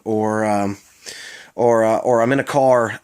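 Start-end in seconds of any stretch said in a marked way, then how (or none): 2.2-3.0 "in a car", THE worn down to "a"; Baltimore slur. Shown as a demonstration. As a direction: swallow the TH before car. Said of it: "could also translate to phrases like".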